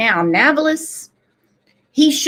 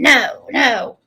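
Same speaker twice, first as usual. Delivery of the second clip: put-on Irish accent; 3 semitones higher than usual. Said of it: "in his Irish accent".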